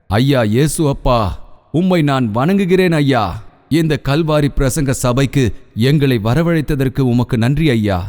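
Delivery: earnest pastor's prayer building in intensity; fervent prayer. Acted. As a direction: pray aloud for the whole church, rising in fervour. Pastor leads congregation prayer.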